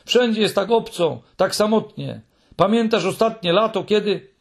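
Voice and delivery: high, pleading character voice; plaintive outpouring. A narrator's reading. Muminek pours out loneliness to Mi.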